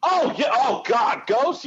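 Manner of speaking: exasperated outburst. Real, not acted. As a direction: blurt it out, half shouting. Groaning at the memory of Ghosts.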